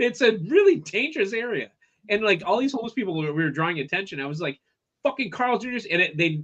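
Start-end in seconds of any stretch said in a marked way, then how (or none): 5.0-5.9 mock furious shout, high and angry. Retelling screaming at a Carl's Junior in Koreatown, retelling own scream. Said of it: "I'm screaming at Carl's Junior's".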